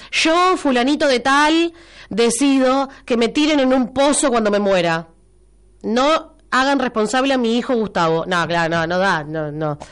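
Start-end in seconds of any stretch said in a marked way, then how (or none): 0.1-8.2 mock formal declaration. Host drafting a listener's burial will in a mock-solemn voice. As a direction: read it like a solemn notarized will. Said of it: "Que lo deje escrito y firmado".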